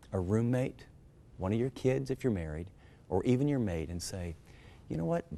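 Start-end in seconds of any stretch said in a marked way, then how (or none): 4.9-5.3 gentle asking. Shown as a demonstration. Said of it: "Be gentle and just ask".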